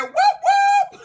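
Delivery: high, loud cheering whoop; excited whoop. Retold or imitated. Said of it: "Trudy said".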